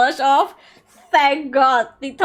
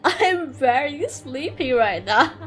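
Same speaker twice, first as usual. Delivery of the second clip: put-on slow, drawn-out drunk voice; drunken prosecutor; slower than usual. Wine-soaked prosecutor to learned friend, slow drunken voice. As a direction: play it sleepy and intoxicated, dragging the words. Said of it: "like, fucking intoxicated".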